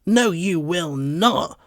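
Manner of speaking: loud, slow defiant yell; a dog yelling at intruders; yelled back. A narrator's reading. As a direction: yell it back at them, drawn out. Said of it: "I yell back at them".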